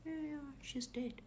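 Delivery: soft, high, calm voice; calm reply. Retold or imitated. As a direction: imitate a daughter quietly confirming. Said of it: "My daughter is calm".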